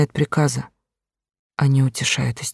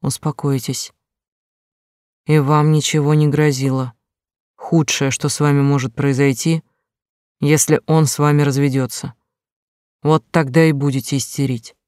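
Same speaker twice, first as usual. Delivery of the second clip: dry. Acted. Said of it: "сухо повторил".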